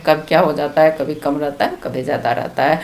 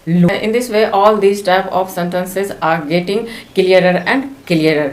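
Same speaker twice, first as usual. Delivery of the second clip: slow summing-up line; much slower than usual. Shown as a demonstration. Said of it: "teacher closing summary line".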